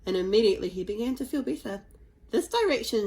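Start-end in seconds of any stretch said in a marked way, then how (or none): 2.3-3.1 shout. Acted. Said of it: "shouted Hiccup".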